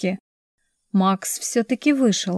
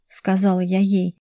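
ordinary delivery, nothing marked

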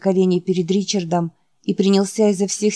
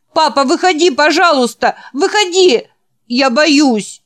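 very high, loud pleading wail; terrified screaming; 9 semitones higher, 6 dB louder than usual. Acted. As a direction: scream for dad like a scared child. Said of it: "закричал Ричард". (панический детский крик с мольбой)

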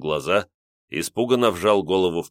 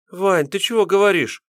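put-on much higher, frightened girlish babble; flustered babbling; 12 semitones higher, 4 dB louder than usual. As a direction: babble it out, scared and pleading. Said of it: "залепетала девушка".

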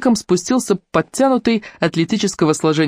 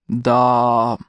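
deep baritone; 5 semitones lower than usual. A narrator's reading. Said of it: "глубоким баритоном произнёс Ломакс".

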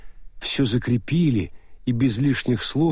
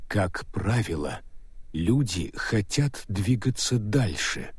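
Death's voice; 2 semitones lower, 5 dB quieter, slower than usual. Acted. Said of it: "намекнул смерть".

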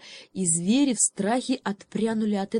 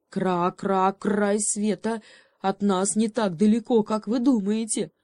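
croaking, smirking raven; raven's smirk; 2 semitones higher, 3 dB louder than usual. Acted. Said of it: "усмехнулся ворон".

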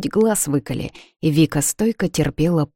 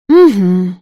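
weak reply; 3 semitones higher, 9 dB louder than usual. A narrator's reading. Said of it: "Снова отозвалась Вика и слабо улыбнулась".

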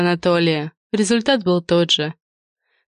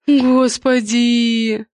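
moaning; 5 semitones higher, much slower than usual. A narrator's reading. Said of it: "застонала она".

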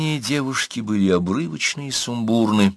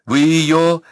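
high strained voice catching; voice breaking; 8 semitones higher, 6 dB louder than usual. A narrator's reading. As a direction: let the voice break off. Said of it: "Голос девушки сбился".

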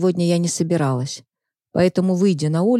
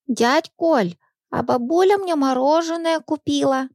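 put-on high child voice, boasting; bragging little girl; 8 semitones higher than usual. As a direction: show off like a small kid. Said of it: "похвасталась девочка".

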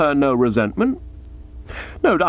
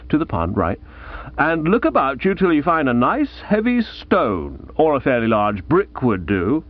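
lightly voiced Aunt Dahlia; 2 semitones higher than usual.

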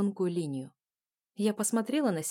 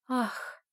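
dreamy sigh; 6 semitones higher than usual. A narrator's reading. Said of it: "с каким-то мечтательным видом".

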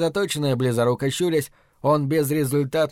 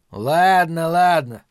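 squeaking; 4 semitones higher, 5 dB louder, much slower than usual. Acted. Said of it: "пропищал Лео".

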